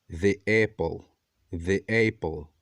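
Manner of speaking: "the" as "thee" in "the apple"; the before a vowel. Shown as a demonstration. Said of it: "Por isso que nós pronunciamos".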